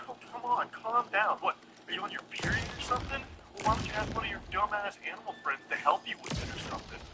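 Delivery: high, mocking, whiny taunts; condescending jerk voice. Guy belittling the girl over Animal Crossing, in a high whiny sneer. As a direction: sneer at her like a smug gamer bro. Reading the guy's condescending texts.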